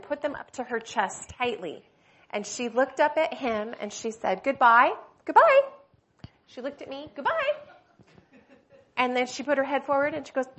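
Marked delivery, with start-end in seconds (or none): 4.4-4.9 zealous goodbye. Retold or imitated. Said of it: "a zeal in her voice". 5.3-5.6 a much higher, loud, ringing goodbye; a dying mother's fervent farewell, high and loud; zealous goodbye. Retold or imitated. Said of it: "a zeal in her voice". 7.1-7.5 much higher, rising goodbye full of zeal; high, eager farewell to her daughter; zealous goodbye. Retold or imitated. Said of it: "a zeal in her voice".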